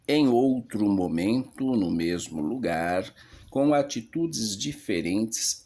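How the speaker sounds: leitura teatral de rubrica, levemente enfática. Acted. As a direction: ler a indicação de cena em tom de palco. Lê as rubricas da peça. (rubrica lida com leve declamação)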